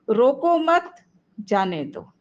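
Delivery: "रोको मत" held together high, break before "जाने दो"; merciful plea. Shown as a demonstration. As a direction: raise "रोको मत" as one phrase, then release "जाने दो". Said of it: "यह भाव है।".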